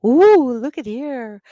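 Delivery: booming excited nature-show voice; excited Australian host. Retold or imitated. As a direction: gasp at the find like a thrilled wildlife host. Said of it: "there's one that's really funny".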